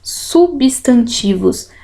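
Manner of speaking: slow, syllables apart. Shown as a demonstration. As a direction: sound out Substantivos slowly. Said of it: "P S, nenhuma vogal aqui".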